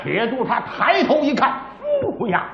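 dramatic pingshu storyteller voice, rising to the cliffhanger; storyteller narration. Acted. Storyteller tells listeners the cave-in, in a dramatic pingshu voice. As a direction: spin the tale like a pingshu teller.

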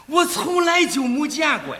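big comic admission; calling out. Pretend. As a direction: cry it out for comic effect. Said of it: "你喊什么？".

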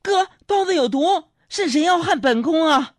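palace-drama consort. Retold or imitated. Little cousin cries poison like a palace consort, high and hammed. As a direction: cry out like a concubine in a palace drama. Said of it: "她就在那喊".

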